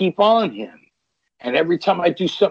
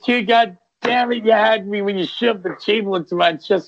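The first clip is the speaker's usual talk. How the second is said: excited greeting; 7 semitones higher than usual. Retold or imitated. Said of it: "He's like".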